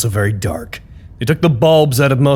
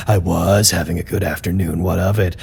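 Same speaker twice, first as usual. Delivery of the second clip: sulky retort; 6 semitones lower, 4 dB quieter than usual. Acted. Snapping back at the greeting.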